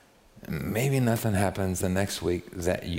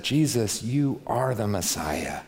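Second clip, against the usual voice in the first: sincere confession; slower than usual. Shown as a demonstration. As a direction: say it with reverent conviction. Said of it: "See what I mean? It's the same words".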